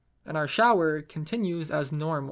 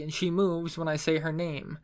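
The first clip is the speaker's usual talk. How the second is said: usual speaking voice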